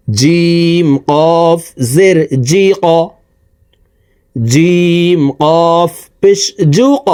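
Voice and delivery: slow teaching chant, each letter name drawn out; slow spelled recitation. Shown as a demonstration. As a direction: spell it out slowly like a Qur'an tutor. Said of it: "কফ হরফকে ... ধাক্কা দিয়ে উচ্চারণ".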